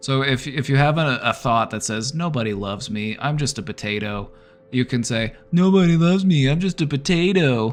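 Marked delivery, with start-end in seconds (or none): 5.5-7.7 shrill, loud, annoying whiny voice. Demonstrating how to repeat a negative thought back to yourself: annoying whiny voice. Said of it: "in an annoying and whiny voice".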